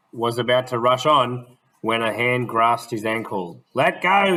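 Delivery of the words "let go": higher, louder "Let go!" shout. Acted. Smith shouting at the gentleman gripping his ankle, higher and louder. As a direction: yell it to free the ankle. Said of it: "he shouted".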